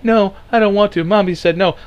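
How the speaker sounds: put-on high little kid refusing; a small child saying no. Frightened child refusing the stranger, high and small.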